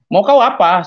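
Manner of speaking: high, loud challenge; retold angry demand. Husband confronts his silent wife at home, angry. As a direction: demand an answer from her.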